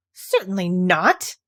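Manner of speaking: slow, firm, a touch offended; understated indignant denial; mild indignation. Acted. Alice insulted at the question, mildly indignant. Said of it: "said Alice indignantly".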